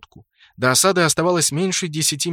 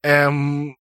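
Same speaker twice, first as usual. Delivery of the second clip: hesitant. Acted. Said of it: "замялся Спрут".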